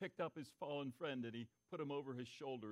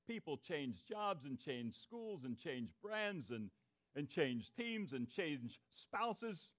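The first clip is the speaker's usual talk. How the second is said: each "change" spaced out, slowed right down; slow, weighty list; 3 semitones lower, much slower than usual. Real, not acted. Pastor slowing to list what people abandon, deliberate. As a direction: let every item land one by one. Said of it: "list slowed for weight".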